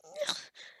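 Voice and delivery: short high strained grunt; small noise of heaving a weight; effort grunt. Acted. Straining to lift an unconscious person.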